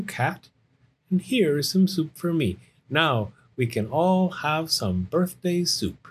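put-on high young bear, taking charge; busy Little Bear. Little Bear serving soup to his friends, high and busy. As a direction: play a bear cub hosting his friends.

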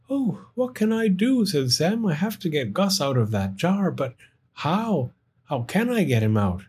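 fretting to himself; worried. Acted. Sam worried in car.

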